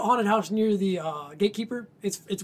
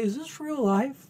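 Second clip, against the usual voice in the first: John's stoned musing; 5 semitones higher, 4 dB quieter, slower than usual. Retold or imitated. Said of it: "that's what John used to say".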